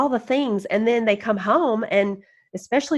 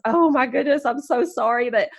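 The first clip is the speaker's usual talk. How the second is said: giggling woman; 3 semitones higher than usual. Retold or imitated. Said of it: "and she goes".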